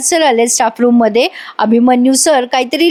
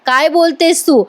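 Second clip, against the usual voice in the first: mock angry retort; 2 semitones higher than usual. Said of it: "Abhimanyu sir खूप चिडतात".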